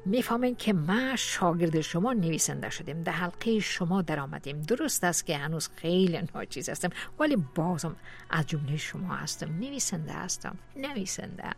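elated. Acted. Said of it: "بلند بلند گفتم".

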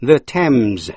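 "the Thames" said "the TEMZ", silent h and no th sound; "Thames" rhymes with gems, stress on the one syllable; say Thames right. Shown as a demonstration. Teacher showing listeners "Thames" as TEMZ. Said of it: "đọc là the Thames".

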